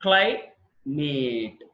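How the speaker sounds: క్లైమేట్ drawn out slowly, syllable by syllable; slow syllable demo. Shown as a demonstration. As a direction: stretch క్లైమేట్ into its two syllables. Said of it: "two syllables ఉన్నాయి". (నెమ్మదిగా అక్షరాలుగా విడదీసి)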